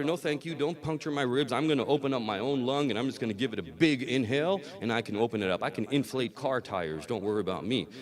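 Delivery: breezy pretend self-assurance; mock bravado. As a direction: play someone brushing off the doctor. Acts out overconfident patient refusing doctor.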